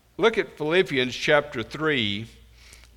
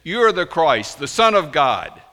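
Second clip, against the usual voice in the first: bold declaration; 3 semitones higher, 6 dB louder than usual. Retold or imitated. Peter answering Christ, bold louder confession. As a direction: proclaim it, louder, boldly and without pause. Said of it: "in his impetuous, bold way".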